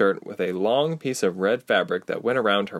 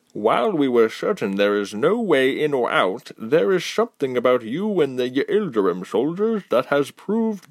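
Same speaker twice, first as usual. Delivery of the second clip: lightly voiced older leader, measured and grave; grave council spokesman; 3 semitones higher than usual. Spokesman warning Ilse about the wall, lightly voiced and grave. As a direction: weigh each word like an elder.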